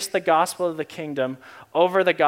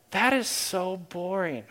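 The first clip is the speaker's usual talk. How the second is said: slow, softer, bored drawl of the line; bored Jesus; 6 dB quieter, slower than usual. Retold or imitated. Jesus hearing sin management, slow and bored. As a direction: let it sag like a yawn. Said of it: "I'm yawning listening to myself".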